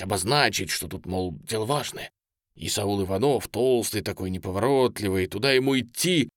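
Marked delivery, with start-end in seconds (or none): none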